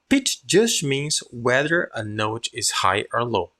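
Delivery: careful read-aloud. Shown as a demonstration. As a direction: read it out like a model text. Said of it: "now listen my pronunciation".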